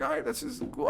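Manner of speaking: high, thrilled aside; excited. Retold or imitated. At the Lions, retelling his thrill, high. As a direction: pitch it up with a kid's delight. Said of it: "I'm like".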